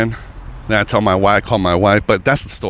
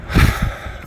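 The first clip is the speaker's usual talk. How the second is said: sigh. Real, not acted. Pause before resuming the story.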